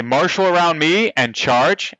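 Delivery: slow, commanding battle cry; rally the troops with a booming call; booming commander voice. Acted. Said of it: "in a nice booming voice".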